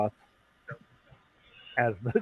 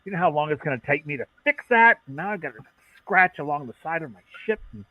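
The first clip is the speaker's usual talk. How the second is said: much higher, indignant squawk of complaint; irritated mechanic; 6 semitones higher, 4 dB louder than usual. Acted. Young mechanic scolding Talia over his ship: high irritated squawk. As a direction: sputter like a flustered young mechanic.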